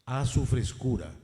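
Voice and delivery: measured poetry reading with falling line ends; poem recitation. Acted. Mayor reads the poet's own poem in homage to her, poem recitation. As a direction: recite it line by line, pausing after each.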